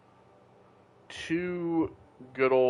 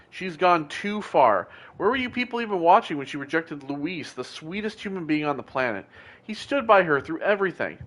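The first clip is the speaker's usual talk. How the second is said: a lightly voiced worked-up fan; indignant superfan; 4 dB quieter than usual. Fan scolding the whole community, mildly indignant. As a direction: rant it out like a betrayed reality-show fan.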